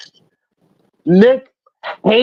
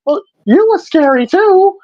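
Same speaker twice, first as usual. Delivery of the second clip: mock reassuring; 11 semitones higher than usual. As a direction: cheer him up, a bit hammed. Nick comforting old man.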